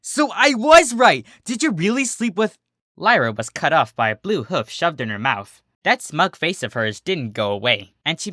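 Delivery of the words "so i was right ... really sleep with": high, loud triumphant teasing; gleeful tease. Acted. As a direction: crow that you were right. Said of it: "Lyra grinned".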